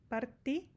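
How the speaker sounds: "parti" with a hard t, no ch sound; Spanish t in "parti". Shown as a demonstration. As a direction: say the "ti" in "parti" as a crisp tee. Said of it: "só o ti".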